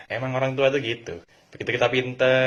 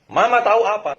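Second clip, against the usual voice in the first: loud high retort; child rudely snapping back at mom; 9 semitones higher, 8 dB louder than usual. Shown as a demonstration. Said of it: "Nggak boleh dibentak balik".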